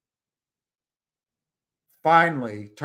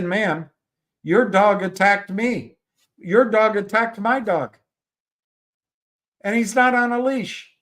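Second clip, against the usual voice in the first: louder, higher, firm accusing tone; indignant complaint; 8 semitones higher, 4 dB louder than usual. Retold or imitated. Confronting the woman whose dog attacked him, loud and indignant. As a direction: tell her off, pressing on your.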